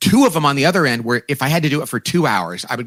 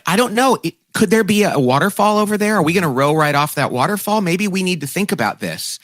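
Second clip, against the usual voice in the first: lightly voiced, higher, musing questioner; a hint of a wondering dreamer; 4 semitones higher than usual. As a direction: wonder aloud about the waterfall. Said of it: "But it's like".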